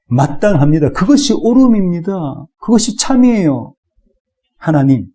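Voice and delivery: a mild acted insistence that he deserves death; defiant Israel's answer. Preacher voicing Israel answering God, building defiance. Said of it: "이스라엘의 대답이 무엇입니까?".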